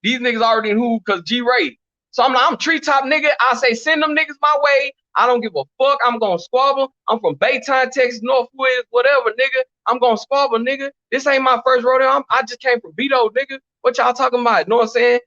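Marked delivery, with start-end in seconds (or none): 2.5-3.3 retold defiant answer, pitched up; high, defiant comeback at normal volume; going off. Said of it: "I'm going off and shit". 3.7-14.7 mildly worked-up retold challenge; going off. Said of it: "I'm going off and shit".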